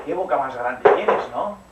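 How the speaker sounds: put-on the girl cries out in growing fear; alarmed question. Caperucita to the wolf, slow and loud alarm. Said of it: "dijo Caperucita".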